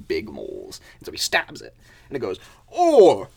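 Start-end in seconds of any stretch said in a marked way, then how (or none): 2.7-3.3 loud, high cry of surprise; indignant "ow" from a cartoon mole; pained yelp. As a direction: yelp as if jabbed from behind. Mole stabbed from behind, cries out.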